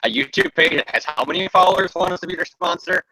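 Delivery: imitated scornful disbelief; mock incredulous. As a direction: play a sponsor balking at the request. Voices sponsor's reaction to their request.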